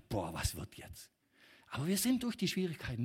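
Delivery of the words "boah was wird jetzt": much lower, softer worried sigh of a thought; remembered worry. Retold or imitated. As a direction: mutter the old fear to yourself. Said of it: "wo ich schon dachte".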